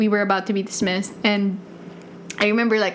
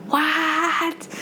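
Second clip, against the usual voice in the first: mom's surprise; 7 semitones higher than usual. Retold or imitated. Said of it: "She was just like".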